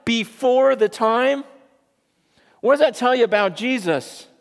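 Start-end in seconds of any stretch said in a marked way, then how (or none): 0.0-1.5 high, loud demon wail; screaming demon. Retold or imitated. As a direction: plead like a frightened demon. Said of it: "He goes".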